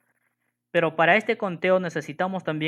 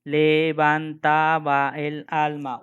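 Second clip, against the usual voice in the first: slow reading; much slower than usual. Shown as a demonstration. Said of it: "Por ejemplo, dice".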